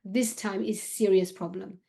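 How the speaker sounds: put-on light Syrian accent, a little slow; lightly accented English with a Syrian lilt; a hint of a Syrian accent, unhurried. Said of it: "he said in his Syrian accent".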